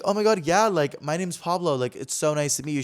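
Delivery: high, eager fan greeting that settles toward the end; starstruck gush. Retold or imitated. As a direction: introduce yourself breathless with excitement. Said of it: "I'm like".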